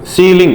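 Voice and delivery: सीलिंग with a long ee in the first syllable; teacher modelling सीलिंग with a long ee. Shown as a demonstration. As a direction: say सीलिंग with a clear, held "see". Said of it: "इसमें capital ई निकल".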